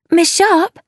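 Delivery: high, eager call; urgent calling out. A narrator's reading. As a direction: call after someone who is leaving. Jemima calls to leaving carriage.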